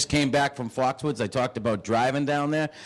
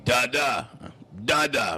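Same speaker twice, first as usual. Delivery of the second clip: put-on raspy baby; slower than usual. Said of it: "He sounds like he smokes cigarettes".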